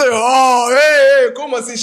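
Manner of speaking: startled husband. Retold or imitated. Husband startled in intimate moment.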